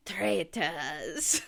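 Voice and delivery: badly faked Scottish accent; terrible Scottish accent. Shown as a demonstration. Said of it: "The only Scottish I can do is from Traitors".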